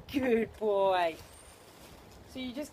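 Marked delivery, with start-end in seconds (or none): 0.1-1.2 loud, drawn-out praise to a dog; big approving call; hearty praise. Real, not acted. Praising the dog after success.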